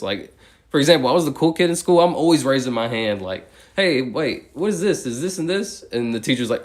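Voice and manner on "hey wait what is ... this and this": high, loud, eager questions to the teacher; eager kid question. Retold or imitated. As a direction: blurt it out like a curious kid with a hand up. Raising hand in class.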